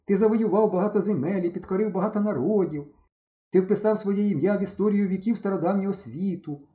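вище, піднесено, як жрець; оголоси смерть фараона; урочистий жрець. Acted. Стьопа грає жерця на похороні. (Стьопа-жрець урочисто оплакує фараона)

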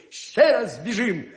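furious hare shouts for another race; angry shout. Acted. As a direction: yell it in frustration. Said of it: "крикнув".

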